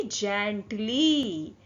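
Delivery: slow "जेंटली", starting on a j sound; soft G word. Shown as a demonstration. Teacher showing how to say the word, slow demonstration. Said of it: "इसको कैसे बोलेंगे".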